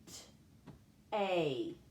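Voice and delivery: "st-, A" with voiceless blend, pause, held A; sounded out. Shown as a demonstration. Teacher demonstrating the consonant blend, "st-, A" sounded out. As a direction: say "st-" alone, then draw out "A". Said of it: "the consonant blend".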